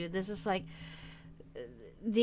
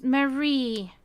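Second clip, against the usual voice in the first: drawn-out call; 3 semitones higher, 5 dB louder than usual. Real, not acted. Calling the cat.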